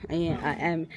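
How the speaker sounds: low, drawn-out tipsy wows. Real, not acted. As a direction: slur it like you're tipsy. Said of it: "I'm so drunk right now".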